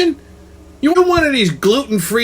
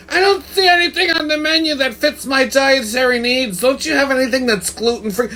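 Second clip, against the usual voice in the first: mock fussy customer; 6 semitones higher than usual. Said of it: "go into a restaurant and go".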